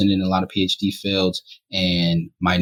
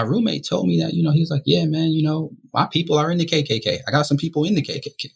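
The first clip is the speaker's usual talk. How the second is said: roommate voice; 9 semitones higher than usual. Retold or imitated. Voicing roommate, pitch way up.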